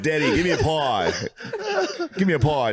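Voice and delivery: mock pleading son. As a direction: play the son begging Daddy, half laughing. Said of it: "He said".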